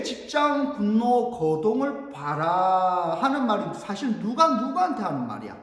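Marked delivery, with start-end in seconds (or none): 0.0-3.2 slow, stretched refrain; measured, declaimed verse; pansori recitation. Shown as a demonstration. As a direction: draw out each word like a chanter.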